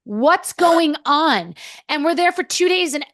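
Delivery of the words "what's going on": slow, drawn-out, higher retold disbelief; incredulous. Overwhelmed among supermodels in Paris, retold incredulity. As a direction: stretch each word in mock bewilderment.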